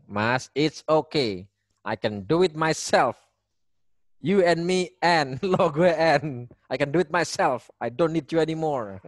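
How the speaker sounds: slow, hammed-up huffy refusal; mock angry wife. Wife refusing her husband's help in a mock sulk. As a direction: drag it out like a sulking wife. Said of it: "istrinya marah ke suaminya".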